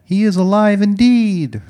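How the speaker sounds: high, loud sustained call; answering callback. Retold or imitated. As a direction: call back from the rear of a crowd. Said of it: "two voices from the back were like".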